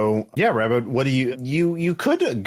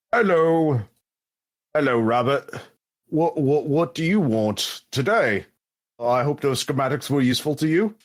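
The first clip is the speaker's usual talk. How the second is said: meek, higher-pitched clerk voice; Hunby; 3 semitones higher than usual. Acted. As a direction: put on a fussy little clerk's accent. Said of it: "the clerk is like".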